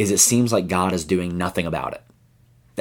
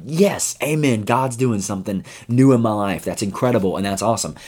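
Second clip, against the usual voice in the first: excited amen; 3 semitones higher than usual. Pretend. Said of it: "that sounds like".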